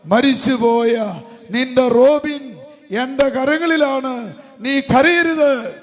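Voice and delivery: slow, drawn-out preaching voice; solemn proclamation. Retold or imitated. Jesus telling grieving mother not to cry, solemn slow proclamation. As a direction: let each phrase ring out slowly.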